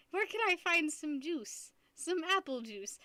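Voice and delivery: a hint of an old lady, drawn out; lightly voiced old lady. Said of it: "like, this old lady".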